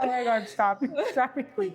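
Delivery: choked-up, pleading through tears; laughing-crying stop it; teary protest. Real, not acted. Guest moved to tears by the host's praise, pleading.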